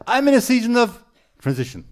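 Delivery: mock gloomy sigh, still loud; heavy, weighed down. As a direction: imitate the burdened way people say it. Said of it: "feel the heaviness that they're living under".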